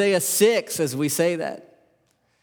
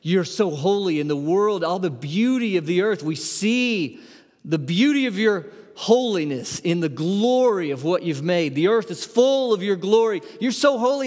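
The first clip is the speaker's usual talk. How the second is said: overwhelmed awe; 3 semitones higher than usual. Pretend. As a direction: let the wonder build as you go. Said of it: "they're overwhelmed and they're shocked".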